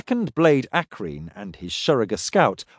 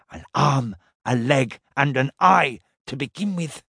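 muttered hiss. Acted. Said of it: "the Shurugga muttered".

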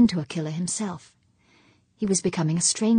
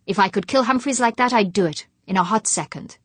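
a touch louder, hard and bitter; bitter snapping; 3 semitones higher, 5 dB louder than usual. Acted. Fuchs insisting to his wife he would kill, bitter and hard. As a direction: press the point home with anger. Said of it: "he snapped".

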